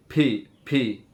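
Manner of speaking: ফি with a puff between প and ফ; letter P said ফি, breathy p; aspirated p. Shown as a demonstration. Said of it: "প এবং ফ এর মাঝামাঝি একটা সাউন্ড". (প আর ফ এর মাঝামাঝি ফি)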